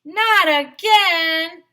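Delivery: slow, drawn-out moan. Acted. Teacher moaning at another interruption, slow. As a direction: moan it out slowly in dismay. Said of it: "moaned Mister Granite".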